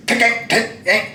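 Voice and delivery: short high percussive knocks; vocal banging effect; imitated door banging. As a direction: mimic blows on a door with the mouth. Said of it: "they hit the door like this".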